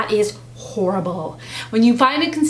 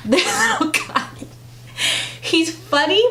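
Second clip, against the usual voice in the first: put-on baby voice; 6 semitones higher than usual. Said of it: "do the baby voice".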